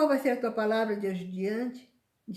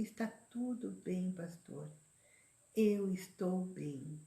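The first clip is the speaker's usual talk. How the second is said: much softer and slow; soft calm reply; 8 dB quieter, slower than usual. Shown as a demonstration. Preacher showing the reply to send the pastor, soft and slow. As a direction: say it quietly, at peace. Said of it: "fala assim".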